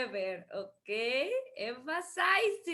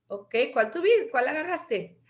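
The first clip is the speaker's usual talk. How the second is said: usual speaking voice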